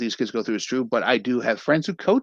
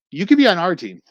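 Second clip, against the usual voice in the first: put-on kid recruiting; 7 semitones higher, 7 dB louder than usual. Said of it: "That was Danny recruiting him".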